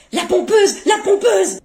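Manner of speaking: high, chanted name-calling; high-pitched repeated heckle; gleeful child's taunt. Acted. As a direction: chant the insult like a playground jeer. Child gleefully parrots father's insult.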